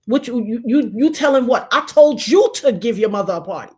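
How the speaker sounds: a stern voice from heaven laying down the order; retold booming God. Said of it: "And then God said".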